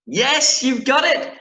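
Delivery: high, loud triumphant reveal; excited announcement. Real, not acted. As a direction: announce it like a big win. Teacher reveals the long-awaited book.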